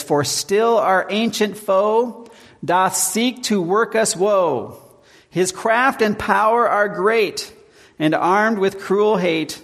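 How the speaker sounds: put-on slow, measured reading of old verse; solemn recited hymn verse; slow hymn recitation. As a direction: lift each line of the hymn deliberately. Reciting Luther hymn lyrics.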